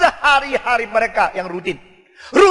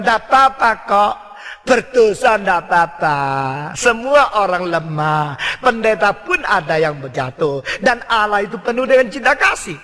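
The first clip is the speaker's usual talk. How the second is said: sweet devil voice. Acted. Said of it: "Ini suara setan yang manis".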